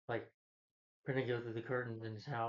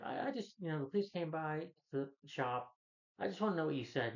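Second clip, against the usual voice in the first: lightly raised, hesitant pal voice; fishing for info, a touch higher; Randall's nervous voice; 4 semitones higher than usual. Retold or imitated. Retelling Randall pressing Arthur, lightly higher nervous voice.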